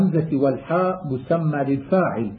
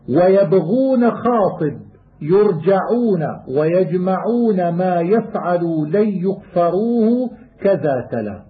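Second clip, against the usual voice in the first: poem recitation. Acted. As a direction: recite the rhymed line like a student of qira'at. Chanted verse of the poem.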